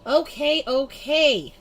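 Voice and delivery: loud, high shout back at mom; yelling back. A narrator's reading. Girl yells back at angry mom, loud and high. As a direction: yell it back, fed up. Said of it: "I yelled back".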